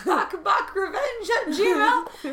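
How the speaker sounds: high, slow, laughing. Real, not acted. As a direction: giggle it out slowly. Joke email address.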